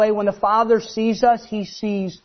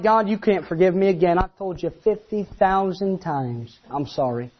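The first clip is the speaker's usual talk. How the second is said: ashamed prayer; 3 semitones lower, 3 dB quieter than usual. Retold or imitated.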